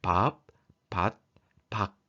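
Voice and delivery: short stopped syllables with the nose held; nose-pinched demo. Shown as a demonstration. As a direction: say each word separately, nose pinched. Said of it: "금방 코를 막고 소리 냈는데도".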